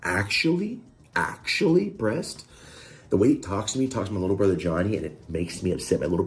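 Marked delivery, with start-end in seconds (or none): 0.0-2.5 incredulous high-pitched mockery; mocking imitation. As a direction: pitch jumping up in mock disbelief. Mimicking the other man's annoying retort.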